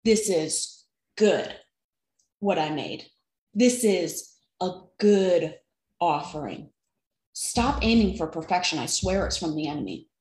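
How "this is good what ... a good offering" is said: a hint of a calm, approving God; voicing God. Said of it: "He said".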